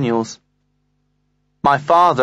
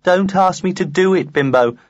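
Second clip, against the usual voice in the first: yucky voice; 3 semitones higher than usual. Retold or imitated. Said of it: "She was using a yucky voice".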